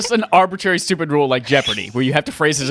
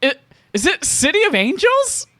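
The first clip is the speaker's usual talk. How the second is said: high rising guess; unsure question; 11 semitones higher than usual. Real, not acted. Guest answers the quiz as an unsure question. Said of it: "guess the movie as an unsure question".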